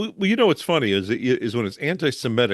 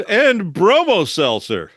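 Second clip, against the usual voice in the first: chipper 1950s ad; 6 semitones higher, 6 dB louder, slower than usual. Retold or imitated. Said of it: "vintage ads".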